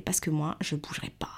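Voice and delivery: defiant refusal. Retold or imitated. Defiant refusal to officials, voice drops.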